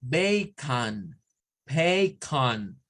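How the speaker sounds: bacon with a weak last vowel, BAY-kn; English bacon. Shown as a demonstration. Teacher modelling bacon with schwa. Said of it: "parece O".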